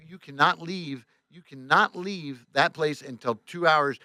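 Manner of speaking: slow, spaced-out prohibition; firm order. Retold or imitated. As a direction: spell it out slowly, like a boss. Boss forbids driver to leave.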